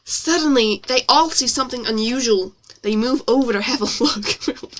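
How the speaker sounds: story read in an exaggerated American accent. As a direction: narrate with put-on American vowels. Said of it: "my lovely American accent".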